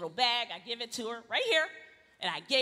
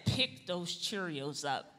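slow, quiet teeth-clenched order; through gritted teeth; 9 semitones lower, 8 dB quieter, slower than usual. Retold or imitated. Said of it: "talk through your teeth".

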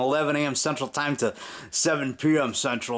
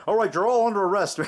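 mock cop arrest; 7 semitones higher than usual. Boy playing Untouchables arrests the girls, higher mock cop voice. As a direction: bark it like a pint-sized detective. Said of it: "I held it and I go".

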